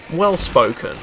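a hint of posh enunciation; well-spoken posh voice. Shown as a demonstration. Gamer testing an actor's voice, lightly well-spoken. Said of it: "He's got a very deep, posh voice".

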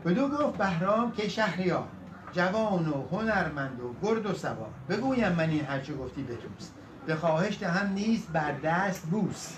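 measured Persian epic recital; epic verse recitation. A narrator's reading. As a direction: recite the couplets with rolling metre.

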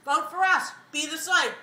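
pleading with cheeks stuffed full; mouth full. Real, not acted. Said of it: "My mouth is stuffed".

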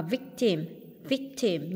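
"victim" with the first syllable stressed. Shown as a demonstration. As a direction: lean on the start of "victim". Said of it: "nhấn âm đầu". (nhấn âm đầu "victim")

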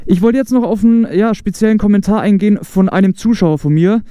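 muffled behind a closed visor; talking inside a closed helmet; inside a motorcycle helmet. Real, not acted. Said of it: "Ich mach doch wieder zu".

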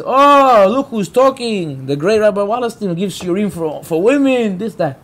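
retold sneer with a drawn-out "look who's talking"; disrespectful mockery. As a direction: imitate someone mocking a rabbi in public. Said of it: "in a very disrespectful way".

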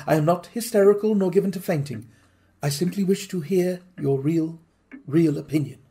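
a hint of a determined wife; lightly voiced lady.

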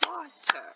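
WATER said softly in two beats, WA ... TER; WATER sounded out syllable by syllable; split into syllables. Shown as a demonstration. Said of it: "When you clap it out".

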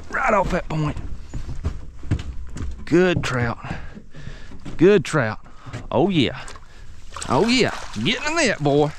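calling a fish in, voice rising with each repeat; excited. Real, not acted. Angler landing a trout he predicted, real excited calls. Fish hooked right off the point.

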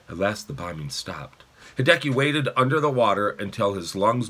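expressive, measured audiobook reading; story narration. A narrator's reading. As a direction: read the chapter aloud to children. Reads a novel aloud.

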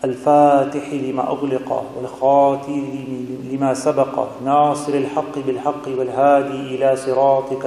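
brisk, fluent Arabic prayer recitation; formal Arabic supplication; Arabic invocation. Real, not acted. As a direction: recite the opening prayer in a practised, flowing run.

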